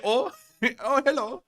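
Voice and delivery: a mock-polite greeting to the drone; voicing soldier. Soldier voiced greeting the drone, mild mock surprised hello. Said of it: "He's like, he's like".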